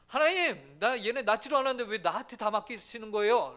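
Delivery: arguing with God. Retold or imitated. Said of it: "따지듯이 말하죠".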